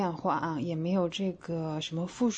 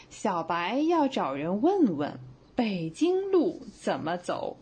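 slow demo read; slower than usual. Shown as a demonstration. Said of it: "比如说".

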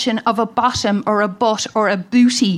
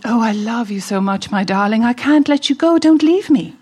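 swanky voice. Retold or imitated. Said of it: "you said to me in a swanky voice".

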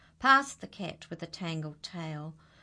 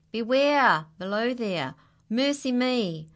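warning shout; 5 semitones higher, 6 dB louder than usual. Acted. Dog falling, warning below.

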